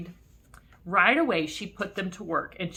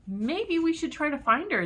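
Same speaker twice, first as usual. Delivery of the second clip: put-on worried kids; 9 semitones higher, 4 dB louder than usual. A narrator's reading. Kids worried about teacher.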